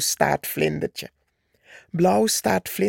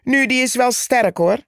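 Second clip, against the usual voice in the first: mocking; 6 semitones higher, 3 dB louder, faster than usual. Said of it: "spotte Purperhart".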